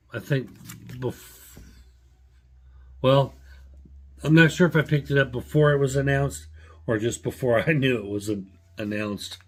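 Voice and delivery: talking through hiccups. Real, not acted. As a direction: hiccups breaking up the words. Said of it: "sorry, I got the hiccups".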